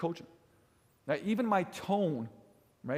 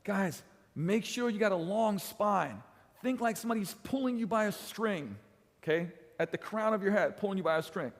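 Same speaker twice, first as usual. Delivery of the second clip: coaching cue; 4 semitones higher than usual. Retold or imitated. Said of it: "I'm like".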